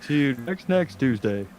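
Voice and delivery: stiff text-to-speech robot voice; robotic voice. Retold or imitated. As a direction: say it like a robot TTS. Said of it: "Super robotic voice".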